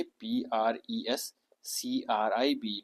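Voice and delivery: slow whispered letter-by-letter spelling. Shown as a demonstration. Teacher whispers the spelling of prescribe to students. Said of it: "प्रिस doctor नहीं".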